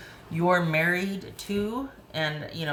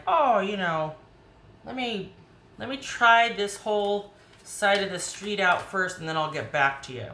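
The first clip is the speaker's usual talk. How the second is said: airy, higher mock voice, stringing you along; mocking the wishy-washy partner; 4 semitones higher than usual. Mocking the partner who wants to try the street first, airy and higher. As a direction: lightly play a partner keeping their options open. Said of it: "for them to be like".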